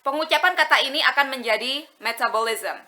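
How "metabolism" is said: metabolism without a punch on "tab"; "metabolism" evenly, as Indonesian learners say it; Indonesian-style pronunciation. Shown as a demonstration. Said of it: "Buat sebagian besar orang Indonesia".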